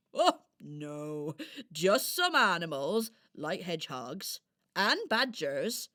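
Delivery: friendly hedgehog character. Acted. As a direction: explain patiently as a hedgehog. Hedgehog answers the doll.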